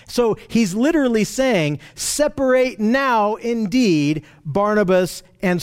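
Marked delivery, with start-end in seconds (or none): 1.9-5.6 slow, deliberate weight on "Separate now indeed"; emphatic declaration. Retold or imitated. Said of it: "it's an emphatic declaration".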